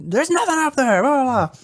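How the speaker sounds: high-pitched hammed-up panic; mock freak-out. Host denying noise upstairs to guests, hammed-up high freak-out. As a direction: imitate a host losing it, then tail into blah-blah. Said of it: "freaks the fuck out".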